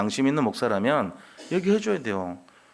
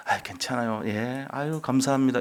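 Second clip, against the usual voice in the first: meek politeness. Retold or imitated. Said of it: "이럴 겁니까?".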